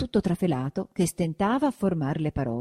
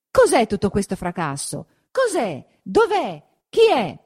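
rapid-fire startled questions, jumping higher; high, louder cry of alarm; 5 semitones higher, 5 dB louder than usual. A narrator's reading. Sexton to the crowd at the church door, alarmed.

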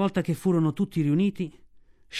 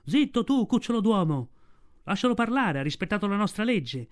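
higher, raised voices of a heckling crowd; wolves shouting; 5 semitones higher than usual. Acted. Some wolves heckling the man-cub, shouting high. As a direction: shout him down from the pack. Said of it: "Alcuni gridarono".

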